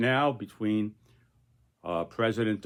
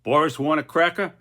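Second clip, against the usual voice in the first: lightly voiced Putin asking; a hint of Putin teasing the parrot; mock Putin; 5 semitones higher, 4 dB louder than usual. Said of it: "And then Putin says".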